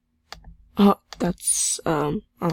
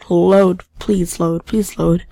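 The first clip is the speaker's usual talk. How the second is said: louder, begging the screen; loud pleading; 6 dB louder than usual. Real, not acted. Player pleads loudly with the game to load. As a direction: push the game to load, insistent.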